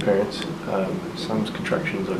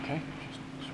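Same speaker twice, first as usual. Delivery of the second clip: whispering; 7 semitones higher, 15 dB quieter, faster than usual. Real, not acted. Whispering in echoey hospital corridor.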